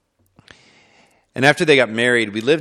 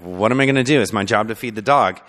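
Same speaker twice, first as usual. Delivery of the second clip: put-on child's worried thought; 2 semitones higher, 5 dB louder, faster than usual. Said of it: "I was like".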